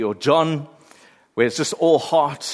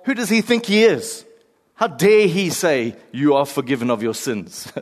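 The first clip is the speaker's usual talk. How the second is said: indignant critic; 3 dB louder than usual. Acted. Preacher voicing scandalised religious critics, indignant. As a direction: scoff at his nerve.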